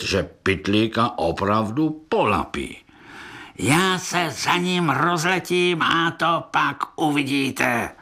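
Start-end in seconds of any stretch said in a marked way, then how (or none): 3.6-7.9 slow, dopey boastful beetle voice; dim cockchafer. Acted. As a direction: puff up like a slow-witted chroust. (přihlouplý chroust, pomalu a chlubivě)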